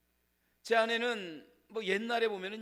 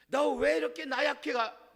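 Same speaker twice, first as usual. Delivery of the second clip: slow, higher scolding jab; God as he does not speak, a hammed-up rebuke; mock rebuke; 5 semitones higher than usual. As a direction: sneer at the weakness. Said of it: "말하지 않아요".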